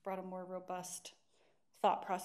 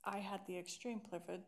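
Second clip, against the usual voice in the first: with braces. Real, not acted. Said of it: "Sorry, I got braces, so I sound ridiculous".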